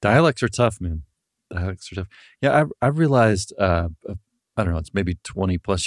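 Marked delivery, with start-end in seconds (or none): 0.0-0.8 dialects said higher and louder, with weight; emphatic. Real, not acted. Agreeing with the guest about accents, emphatic and louder. 1.5-2.1 "Dialects are tough" repeated softer, to himself; quiet echo. Real, not acted. Echoing his own point to the guest, quiet and musing.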